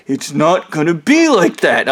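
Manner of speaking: imitated insistent denial of "It's not gonna be like that"; acted-out objection, lightly mocking; mock protest. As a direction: push back on "not gonna be", mimicking him. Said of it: "I started making fun of the dude".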